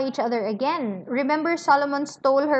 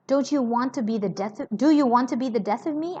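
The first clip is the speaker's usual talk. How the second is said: furtive, frightened; faster than usual. Acted. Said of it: "in a furtive, frightened way".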